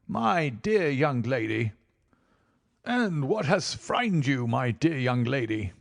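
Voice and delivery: slow, syrupy, too sweet; overdone coaxing. A narrator's reading. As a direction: lay the charm on far too thick. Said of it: "his voice was just a little too coaxing".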